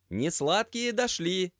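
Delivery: loud, high, slow call. Acted. Semyon calls out to the chef, loud and slow. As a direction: shout the report across the kitchen. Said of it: "крикнул".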